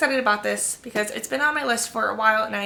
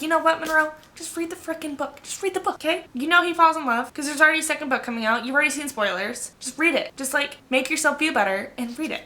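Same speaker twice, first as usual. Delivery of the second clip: higher, bossy pep talk to herself; scolding herself; 5 semitones higher than usual. Retold or imitated. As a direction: nag yourself into reading the book. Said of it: "And I'm like".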